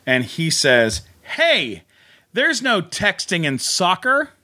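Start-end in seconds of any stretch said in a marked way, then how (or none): 1.4-4.3 coach quote. Retold or imitated. Coach voiced in retold scene.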